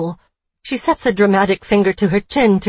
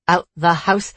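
southern accent. Shown as a demonstration. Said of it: "in a strange southern accent and twisted head".

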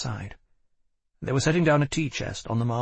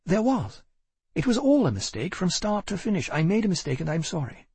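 insistent; 8 semitones higher than usual. A narrator's reading. Caroline insists, distressed.

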